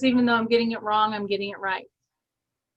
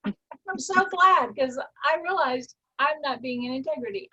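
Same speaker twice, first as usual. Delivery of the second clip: a mock-delighted thank-you to an upset person; glad; 3 semitones higher than usual. Shown as a demonstration. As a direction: stretch out the joy. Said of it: "let's just thank them".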